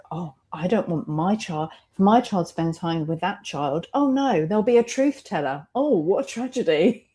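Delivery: hammed-up parental panic, pitch leaping up on oh no; mock the worried parents with fake horror; mock alarm. Mocking parents who fear her truthful child, hammed-up alarm.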